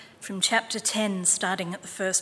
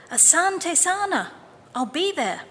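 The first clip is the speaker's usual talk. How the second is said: put-on old man thanking; 9 semitones higher, 3 dB louder than usual. A narrator's reading. Old man voiced in story.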